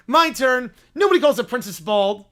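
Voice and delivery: lightly voiced bossy little princess; loud, imperious child's protest; haughty Little Princess. Princess snatching the phone, haughty indignation.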